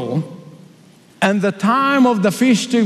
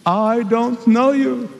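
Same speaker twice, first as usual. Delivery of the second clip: stern bridegroom; 2 semitones higher, slower than usual. Acted. Bridegroom rejecting.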